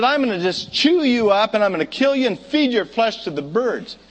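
lightly voiced, boastful giant; a hint of a bragging giant; dopey cartoon bellow. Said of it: "He said".

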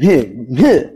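mock exasperated huffs; imitating a wife's upset noises; imitated upset huffing. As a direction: huff twice as if fed up. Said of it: "she's all upset and".

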